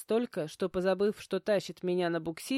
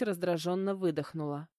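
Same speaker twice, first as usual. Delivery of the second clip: usual speaking voice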